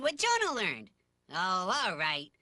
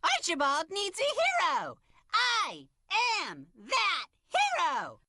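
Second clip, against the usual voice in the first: emphatic, declamatory hero voice; action hero; 4 semitones higher, slower than usual. Acted. Larry inspiring Archibald, heroic proclamation. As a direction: punch each word like a film hero.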